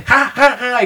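high mock belly laugh; imitated guffaws. Novio imita las carcajadas de su novia, risotada fingida. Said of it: "pero a carcajadas".

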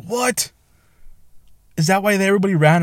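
high-pitched mock disbelief; imitated shocked friends. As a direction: pitch it way up, incredulous. Voices friends' shocked reaction.

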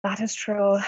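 a hint of a put-on Irish accent, mostly her own voice; light Irish accent. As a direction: play it as a shy, half-hearted Irish brogue. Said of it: "answer this in your Irish accent".

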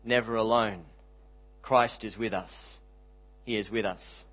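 measured line-by-line recitation, pausing after each phrase; spoken hymn, each line settling gently downward; hymn verse recital. Real, not acted. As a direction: recite it like a poem, unhurried and sincere.

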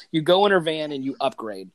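ordinary talk, nothing marked

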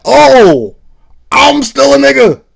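high, loud mock realization; a singer's voice. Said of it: "effeminate singer impersonation".

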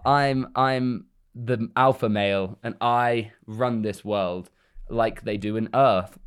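slow, self-important drawl; mock alpha male. Ken brainwashing the Barbies, mock swagger. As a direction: stretch it out like a swaggering boss. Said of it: "into being like".

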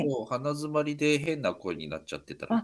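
blocked nose; stuffy, congested nose; nasal voice. Real, not acted.

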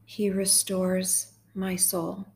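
slow, measured psalm reading with long pauses; guided meditation. Acted. Host leading sad listeners through Psalm twenty-three, slow guided meditation. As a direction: read gently line by line, leaving space to repeat.

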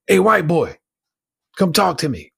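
high, loud opening call to a stranger. Retold or imitated. Guy in the next cell hails the new prisoner, calling out. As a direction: holler over to get someone's attention. Neighboring prisoner calls to him.

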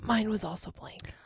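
soft whispered remark; whispering. Real, not acted. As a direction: breathe it out as a whisper. Quiet aside during the game.

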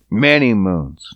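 breathy whispered echo. Real, not acted. Repeated whisper.

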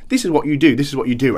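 voiced instructor. Mimicking a character telling the hero what to do, insistent instructor. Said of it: "just somebody telling him".

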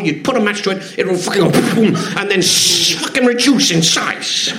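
imitating Dave Allen in a light Irish accent, hushed swearing at first; Dave Allen's Irish accent. Irish accent as Dave Allen retells a drunken Christmas to a young writer. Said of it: "please forgive the accent".

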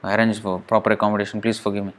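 soft, low plea for forgiveness; retold begging apology. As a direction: imitate a humble, hushed apology. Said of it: "begged for apology".

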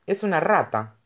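hushed, knowing, a little cryptic; mysterious tone. A narrator's reading. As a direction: say it like a secret only she knows. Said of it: "respondió en tono misterioso". (en tono misterioso)

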